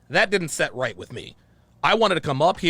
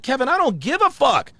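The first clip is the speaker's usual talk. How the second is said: mock heated reply; 7 semitones higher, 4 dB louder than usual. Retelling his defiant reply.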